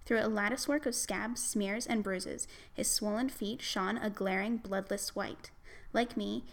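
measured book-reading voice, lightly performed; reading aloud. Acted. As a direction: read the passage like an audiobook narrator. Reads a novel passage aloud.

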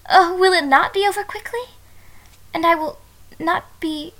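alarmed cry. Acted. Bride to husband, learning it won't be quick: alarmed. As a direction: blurt it out in shocked alarm.

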